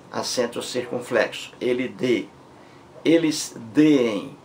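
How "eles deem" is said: deem said slowly as two Es, de-em; slow teacher's demo of the hiatus; drawn-out hiatus. Shown as a demonstration. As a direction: stretch deem into two separate vowels.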